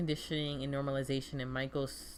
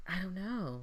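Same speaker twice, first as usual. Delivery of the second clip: strange, soft, high little half-whisper; 5 semitones higher, 3 dB quieter than usual. Retelling a woman's answer to an interviewer, imitating her weird half-whisper. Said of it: "in that weird whisper tone that she does".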